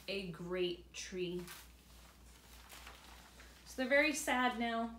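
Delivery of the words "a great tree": slow, soft and downcast; sad boy. Acted. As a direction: sigh it out sadly. Boy sad after tree cut.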